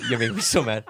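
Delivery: real laugh breaking through quick complaint; laughing exasperation. Real, not acted. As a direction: protest fast while cracking up. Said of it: "you're just making me so mad".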